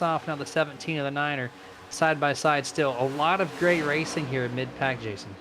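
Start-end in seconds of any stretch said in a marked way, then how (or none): 3.0-5.3 voice crack. Real, not acted. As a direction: voice cracks on the name. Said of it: "I have a terrible voice crack".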